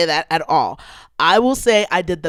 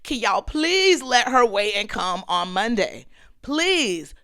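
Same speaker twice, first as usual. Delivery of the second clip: mildly hammed-up plea, stretched on please; retold begging prayer; pleading prayer. Praying to God and all the angels, mock pleading. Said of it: "And I said a prayer to God".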